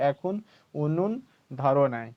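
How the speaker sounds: slow Bengali wife's retort; Bengali line. Acted. Wife refuses to make tea yet, slow Bengali retort. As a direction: say it slowly in Bengali. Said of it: "Bengali में बोलते हैं".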